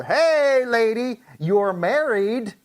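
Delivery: remonstrate firmly with a married woman; earnest, slightly heightened acted reproof; reminding her. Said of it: "He's reminding her".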